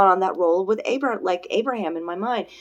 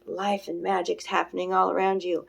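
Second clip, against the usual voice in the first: acted wonder; 7 dB quieter than usual. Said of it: "And I'm like".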